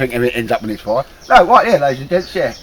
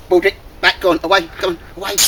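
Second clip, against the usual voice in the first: raised voice ordering the dog back; firm dog command; 6 semitones higher, faster than usual. Real, not acted. Man ordering his dog away from the stool, firm raised call.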